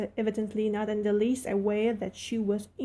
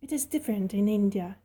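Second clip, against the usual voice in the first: disdainful. Acted. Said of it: "said Mistress Mary disdainfully".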